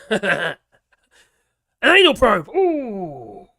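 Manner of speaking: loud laughing disbelief; shocked amused laugh. Real, not acted. Reads a rude comment, laughing.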